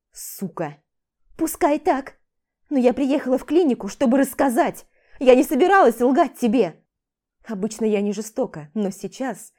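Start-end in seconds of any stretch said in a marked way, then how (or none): 0.1-0.8 low, quiet growl; husband's insult. Acted. 1.4-6.8 loud, raised retort; defiant. Acted. She retorts loudly.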